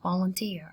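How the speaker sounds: Volunteer with the weight on "teer"; stress on third syllable. Shown as a demonstration. Teacher models stress for students, Volunteer stressed on "teer". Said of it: "Trọng âm dần chữ thứ ba".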